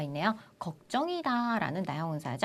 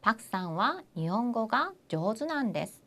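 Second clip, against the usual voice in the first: slow model answer. Shown as a demonstration. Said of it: "뭐라고요".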